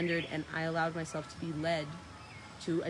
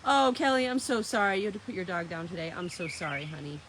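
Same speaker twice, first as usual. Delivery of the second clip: sympathetic condolence; 5 dB louder than usual. Real, not acted. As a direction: console a grieving friend. Consoling viewer whose dog died.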